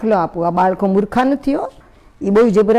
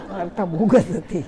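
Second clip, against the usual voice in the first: said through a real laugh; 3 semitones lower, 6 dB quieter than usual. Real, not acted. Repeating the nephew's verdict to the audience, laughing. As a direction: chuckle the words out, amused.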